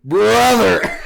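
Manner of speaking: high, loud, drawn-out cry of disbelief; loud, high-pitched exclamation of dismay; exasperated shout. Acted. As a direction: call him out loudly in exasperation. Exasperated reaction to friend's excuse.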